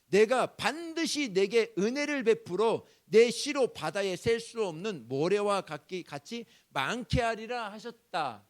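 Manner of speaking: 크고 느리게 엄숙히 선포; 약속을 또박또박 못 박듯. Acted. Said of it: "하나님은 야곱에게 이렇게 이야기합니다". (하나님이 야곱에게 약속을 크게 선포하는 목소리)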